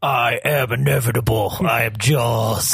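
mock Thanos boast; villain voice. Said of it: "take the stones back in time".

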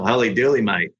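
Holy dooly, mate in a broad Australian accent, dooly lifted; Aussie accent. Shown as a demonstration. Founder demoing the Aussie catchphrase to the host, in an Australian accent. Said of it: "Gotta do with the Aussie accent".

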